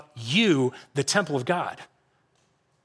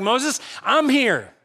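voicing God; 2 semitones higher than usual. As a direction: announce yourself as God arriving to act. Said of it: "He's like".

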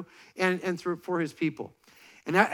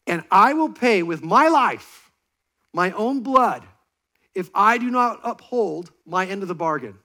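solemn loud oath; 2 semitones higher, 6 dB louder than usual. Shown as a demonstration. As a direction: proclaim it as a binding vow before the crowd. Pastor voices a solemn covenant oath.

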